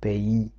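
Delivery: "pays" as "pe-i", s left silent; silent final s. Shown as a demonstration. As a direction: say "pays" in two vowels, no final s. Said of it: "літера С не промовляється".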